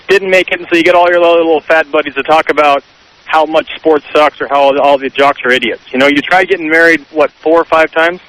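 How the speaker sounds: radio show caller. Real, not acted. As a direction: voice over a phone line. A caller on the Tom Leykis Show.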